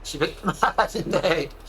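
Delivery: talking while being poked; laughing through tickles; being tickled. Real, not acted. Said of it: "She's poking my bloody neck".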